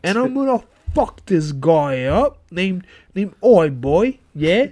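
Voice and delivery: hammed-up Cockney tough talk; mock Cockney threat. Co-host as Cockney listener out to fight, hammed-up Cockney. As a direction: threaten in a put-on Cockney accent. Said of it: "if there was a Cockney person out there".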